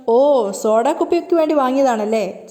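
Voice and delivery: slow, teasing retold jibe; mocking. Sachi mocking his mother over the olive oil, slow and teasing. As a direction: drag it out like a mild sneer. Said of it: "Sachi കളിയാക്കാണ്".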